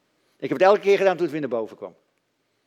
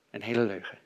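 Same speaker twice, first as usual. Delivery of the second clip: much softer repeat, "hele" still stressed; quiet echo; 8 semitones lower, 9 dB quieter than usual. Shown as a demonstration. Preacher quietly repeats his point to the congregation, soft and weighted. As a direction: drop the voice and let "een hele leugen" sink in. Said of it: "Oftewel een hele leugen".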